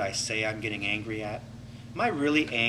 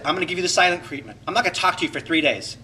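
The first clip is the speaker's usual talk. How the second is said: fast, louder, petulant threat; mock silent treatment; 3 semitones higher, 4 dB louder, much faster than usual. Shown as a demonstration. Acting out a sulking partner, fast and petulant. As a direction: rattle off the punishment spitefully. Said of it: "Expression of anger could be this".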